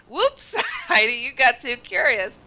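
high, laughing scold at herself; laughing self-scold. Retold or imitated. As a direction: tease yourself while laughing.

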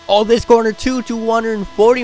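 excited voice cracking high; real voice crack from excitement. Real, not acted. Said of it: "My voice cracked".

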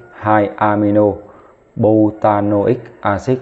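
slow, deliberate naming of the compound; slow read-out. Shown as a demonstration. Teacher to class, reading the joined name out slowly. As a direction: spell out the name for students. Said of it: "đọc ghép lại là butanoic acid".

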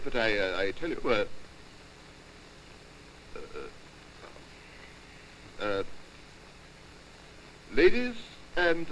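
stammering, halting after-dinner toast; exceedingly nervous man. Acted. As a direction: stumble and flounder through the speech. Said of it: "an exceedingly nervous man".

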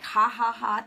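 loud mock laugh; the enemy gloating, hammed-up. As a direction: crow a spoken ha-ha-ha in mock triumph. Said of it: "the enemy was like".

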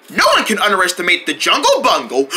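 lightly put-on boastful voice; a hint of a cocky friend; Jungle Bungle. Murphy tries an impression of his friend, lightly boastful. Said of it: "can you do a really good Jungle impression".

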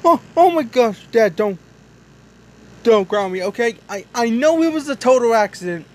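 loud, high, rushed begging; pleading kid. Pretend. Little truck begs his dad not to ground him, pleading loudly. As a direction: beg dad not to punish you, fast.

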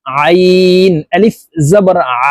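slow spelling, final "আ" squeezed in the throat and held; throaty ain. Shown as a demonstration. Teacher models correct ain, pressed and stretched. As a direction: press "আইন" and "আ" from mid-throat. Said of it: "আইনের মখরাজ হলকের মধ্যখান থেকে".

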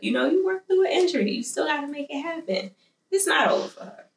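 high, quick encouragement; excited cheerleading. Real, not acted. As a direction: hype her up like a coach. Cheering Mercedes on.

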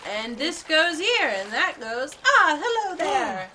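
character voice. Acted. Voicing game character.

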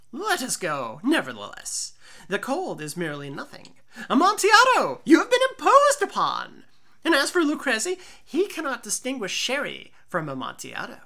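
loud, high, blustering tipsy voice; boisterous drunk Fortunato. Acted. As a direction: bluster past the warning, eager for wine. Fortunato brushes off the cold.

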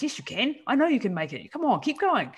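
lifted, upbeat cheer-on; pep-talk yourself, lightly imitating; hint of a cheering coach; encouraging inner voice. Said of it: "and then the other one's".

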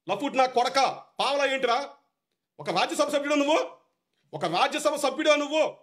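furious rebuke of a rude MP; heated outburst. Real, not acted. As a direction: lash out at him in real anger. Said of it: "ఆవేశంలో మాట్లాడాను".

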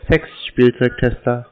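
slow repeat. Real, not acted. Repeating the job title for a confused caller, slowly. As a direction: repeat the word slowly for clarity. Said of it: "Wie bitte?".

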